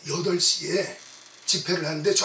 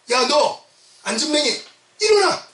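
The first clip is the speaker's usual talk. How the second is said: raised, higher-pitched commanding call; preacher voicing a forceful command; acted command; 6 semitones higher, 5 dB louder than usual. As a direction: order him to his feet. Acts out Peter commanding lame man.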